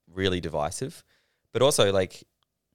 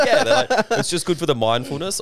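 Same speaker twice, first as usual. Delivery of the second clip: much higher and louder, through laughter; laughing mockery; 9 semitones higher, 6 dB louder than usual. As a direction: cackle while mocking the gang. Mocking bikie gang, laughing.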